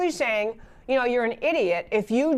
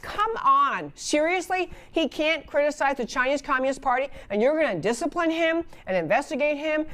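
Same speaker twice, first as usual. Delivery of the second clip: incredulous; 3 semitones higher than usual. Retold or imitated. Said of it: "wrote to the university and said".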